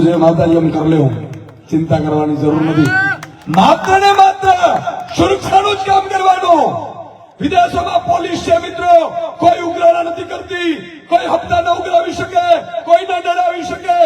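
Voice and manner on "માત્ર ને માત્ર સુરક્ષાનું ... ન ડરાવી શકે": fiery rally speech. Acted. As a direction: drive the point home to the crowd. Rally speech at full force. (ઊંચા અવાજે જોશીલું ભાષણ)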